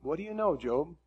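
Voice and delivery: a touch of challenge, questions pitched a little up; lightly voiced God. Preacher voicing God's answer to Job, mildly challenging. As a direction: put mild, humbling questions to someone. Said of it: "God responds to him just basically saying".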